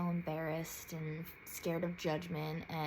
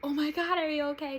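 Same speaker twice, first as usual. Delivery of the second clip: higher, louder alarmed mom; worried mom; 9 semitones higher, 7 dB louder, faster than usual. Retold or imitated. Mom seeing her daughter walk in crying, alarmed and high. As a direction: voice mom's sudden worry. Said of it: "my mom is like".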